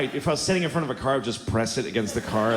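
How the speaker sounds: usual speaking voice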